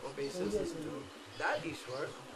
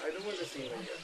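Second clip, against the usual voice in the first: put-on sulking child. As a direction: mumble it like a hurt child. Child answering father.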